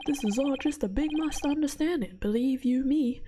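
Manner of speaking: put-on lively country-accented interruption; country accent, protesting to the judge. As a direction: butt in with a folksy country accent. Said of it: "I gave a country accent".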